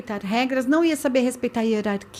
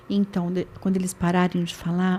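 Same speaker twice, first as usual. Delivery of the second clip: softer and lower, calmly addressing the class; talking low; 6 semitones lower, 5 dB quieter than usual. Retold or imitated. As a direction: drop the voice so the room must lean in. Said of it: "Eu começo a falar baixo". (falando baixo, bem mais suave)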